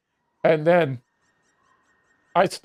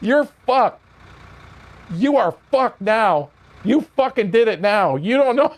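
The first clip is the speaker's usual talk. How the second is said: gloating taunt; 3 semitones higher than usual. Retold or imitated. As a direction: savour the inmate's trouble. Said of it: "That's exactly what he said".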